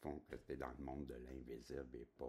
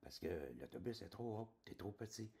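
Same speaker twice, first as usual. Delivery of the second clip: high urgent warning voice; the little voice warns the boy, much higher; mock inner voice pleading, high; inner voice insisting; 8 semitones higher than usual. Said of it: "ma petite voix".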